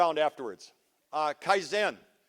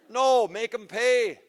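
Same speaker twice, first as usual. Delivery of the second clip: slow, higher and louder insistence; emphatic demand; 6 semitones higher, 8 dB louder, much slower than usual. Real, not acted. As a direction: lean on each word, make them pay. Urging audience to demand payment.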